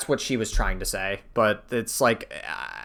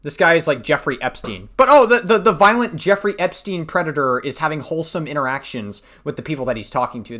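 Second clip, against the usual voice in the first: sarcastic outrage; 4 semitones higher, 3 dB louder than usual. Real, not acted. Sarcastic mock outrage at Sykkuno.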